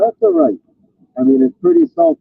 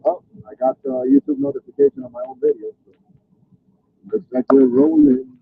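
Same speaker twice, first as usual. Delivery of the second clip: talking while riding over bumps; on a bumpy road; 13 semitones lower than usual. Real, not acted. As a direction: voice jolted by a bumpy ride. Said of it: "Sorry about the bumpy road".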